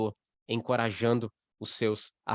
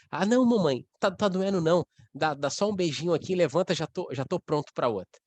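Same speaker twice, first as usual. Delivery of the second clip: put-on high, cheerful little kid voice; comforted child; 5 semitones higher than usual. Child telling mom it no longer hurts, high and childlike. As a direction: play the hugged child bouncing right back.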